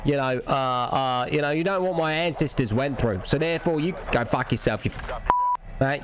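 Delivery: low, mock-offended Aussie voice; Australian accent. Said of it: "Aussie accent".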